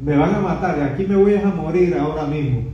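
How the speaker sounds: imitated terrified repentance; frightened Isaiah. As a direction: plead like a man about to die. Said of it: "Estaba pensando Isaías".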